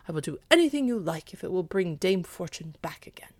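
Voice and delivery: gruff, breathy eager promise; eager dog. Acted. Dog promises the cat he'll do anything, eager.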